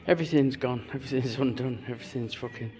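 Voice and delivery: winded after wrestling the engine; gasping between phrases; out of breath. Real, not acted. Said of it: "I'm out of breath".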